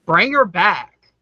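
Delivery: slow, deliberate title announcement; commanding. Real, not acted. Host reading out a makeup nominee, sounding like a command. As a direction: announce it almost like an order. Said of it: "it almost felt like a command".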